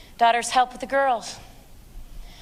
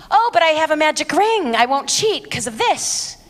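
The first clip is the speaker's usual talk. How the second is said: mocking bride.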